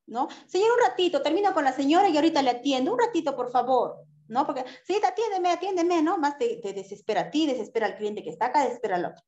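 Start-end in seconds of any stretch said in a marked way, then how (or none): 0.5-4.0 high, quick polite request to wait; polite clerk. Shown as a demonstration. Clerk politely asks a waiting customer to wait, high. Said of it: "hay formas de decir". 4.8-6.0 high, pleading mock customer; impatient customer. Waiting customer nags the clerk, high and impatient.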